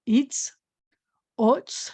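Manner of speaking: "oats" whispered; whispered drill word. Shown as a demonstration. Teacher whispering a practice word to children, hushed. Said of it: "We have".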